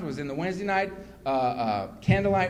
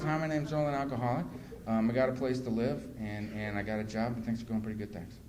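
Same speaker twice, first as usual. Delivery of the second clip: frightened first share; 7 semitones lower, 6 dB quieter than usual. Retold or imitated. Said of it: "I was so frightened".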